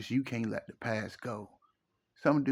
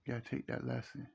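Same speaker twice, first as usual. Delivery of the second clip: hushed whisper; 2 semitones lower, 11 dB quieter than usual. Real, not acted. To hurting men, repeating the lesson in a whisper. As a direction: breathe the repeat, barely voiced. Repeats the advice, dropping his voice.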